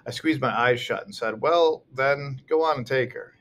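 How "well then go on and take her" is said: irritated. A narrator's reading. Irritated narrator snaps at sister.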